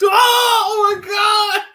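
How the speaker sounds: can't stop laughing while talking; laughing hard at Leroy's story; real laughing fit. Real, not acted.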